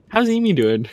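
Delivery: high teasing imitation of a friend; mock Aegon voice. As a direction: squeak it out like a pushy friend. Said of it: "you're like".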